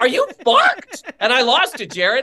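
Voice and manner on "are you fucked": retold yell. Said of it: "I yelled at her".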